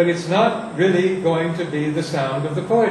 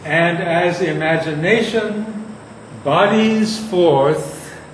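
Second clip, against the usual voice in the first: stretched, very slow verse; very slow recitation; slower than usual. Shown as a demonstration. Teacher reciting to class, very slowly. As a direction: draw out "bodies forth" at half speed.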